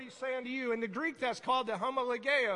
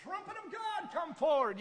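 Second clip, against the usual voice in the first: proclaiming shout; 8 semitones higher than usual. Retold or imitated. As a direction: call it out like a herald. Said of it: "I was like".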